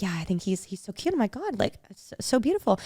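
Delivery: soft, confidential swooning; hushed admiration. Retold or imitated. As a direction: gush under your breath about someone nearby. Confiding about a crush nearby.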